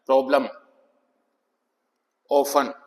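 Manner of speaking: प्रॉब्लम, ऑफन with a short open O; short O sound. Shown as a demonstration. Teacher giving two-consonant examples, short O. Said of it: "short ओ की sound".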